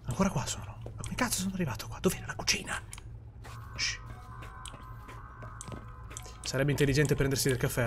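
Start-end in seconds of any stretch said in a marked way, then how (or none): 0.1-4.0 lost and hushed, voiceless; frustrated hushed whisper. Real, not acted. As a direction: whisper so nothing hears you. Sneaking past monster.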